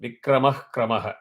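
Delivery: "विक्रमः क्रमः" quick, every vowel kept short. Shown as a demonstration. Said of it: "that is short".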